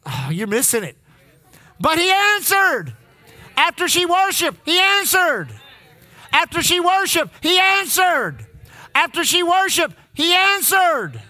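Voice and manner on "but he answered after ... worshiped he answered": rising preacher emphasis. Acted. Preacher drives home the point.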